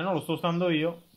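usual speaking voice

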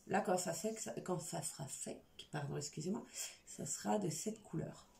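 tired lisp, hissing S slightly slushy. Real, not acted. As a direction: let the S sounds lisp a little. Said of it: "Le cheveu sur la langue s'entend".

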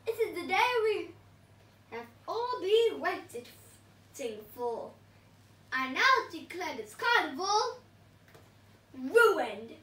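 hammed-up evil declaration to the crowd; the evil pea spoiling the carnival, in a mock screech; villain screech. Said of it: "screeched the P S".

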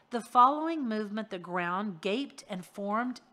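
stumbled misreading; misread take. Shown as a demonstration. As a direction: slip on the words before correcting. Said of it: "The following moment".

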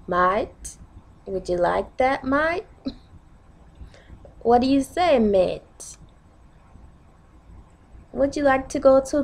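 coaxing, sing-song UK accent. Shown as a demonstration. Coaxing a mate to come to the mall, UK accent. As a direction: put on a UK accent with swooping pitch.

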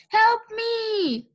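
high, drawn-out panicked wail; cry for help. A narrator's reading. Mister Watson pinned by Mercy, cry for help. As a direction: call desperately for rescue. Driver jumped on by pig.

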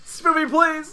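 high pleading call, stretched out; mock heroic begging; hammed-up plea. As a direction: beg the audience like an anime hero. Echoed plea to viewers.

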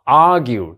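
argueのaを強く高く; 頭のaをはっきり強く; 先頭に強勢. Shown as a demonstration. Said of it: "戦闘に強いストレス". (第一音節に強勢)

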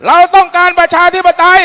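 high, loud slogan shout; rally slogan. Real, not acted. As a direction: shout the demand to the crowd.

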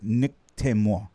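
slow, careful try at French "Temor"; learner's careful "Nick Temor"; attempted French pronunciation. Shown as a demonstration. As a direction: sound out "Temor" slowly, unsure of the French r. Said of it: "never gonna get that right".

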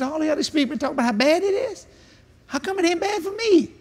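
rally the crowd; fired-up preacher challenging the room; fired-up challenge. Retold or imitated. Retold preaching at convention.

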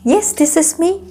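high, slow, self-assured announcement; mock confidence. Customer stepping up to collect the drink, playfully confident. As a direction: claim it proudly, stretched out and lifted in pitch. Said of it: "하면서 막 당당하게".

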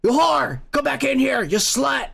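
half-hearted abusive yell; mock angry yelling. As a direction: act out an angry man ordering her back. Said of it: "he's yelling too".

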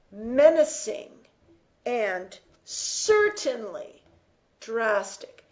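"Menacing" punched, "certainly" slowed and stressed; emphasis on certainly. Shown as a demonstration. Teacher rereading the author's line, slow stress on certainly. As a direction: weigh "certainly" slowly after a strong "Menacing". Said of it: "it is for emphasis".

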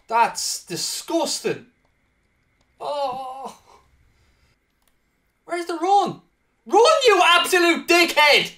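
loud, high raging shouts; slow and livid at the cheating goal; furious outburst. Real, not acted. Gamer raging at the computer's wonder goal, furious.

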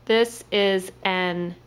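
slow pointing read. Shown as a demonstration. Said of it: "this word right here".

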